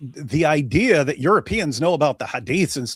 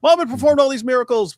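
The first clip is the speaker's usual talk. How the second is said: mocking preacher voice; 10 semitones higher, 7 dB louder, faster than usual. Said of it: "Complete idiotic nonsense".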